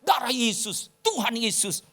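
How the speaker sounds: retold scream. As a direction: imitate someone's cry in a contained voice. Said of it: "tadi loh kamu teriak". (tiruan teriakan yang tertahan)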